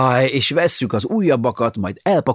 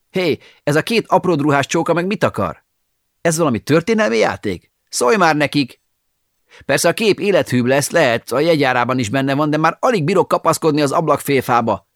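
alarmed; 6 semitones higher, 3 dB louder than usual. Acted. Hanging from window, pages grab him.

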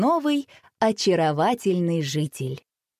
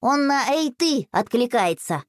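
lightly voiced boy; 5 semitones higher, slower than usual. A narrator's reading. Boy explains name.

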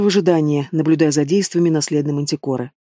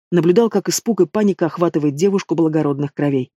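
ordinary delivery, nothing marked

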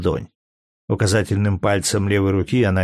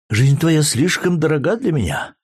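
weak sad voice; 6 semitones higher than usual. A narrator's reading. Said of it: "прибавила она слабым, печальным голосом".

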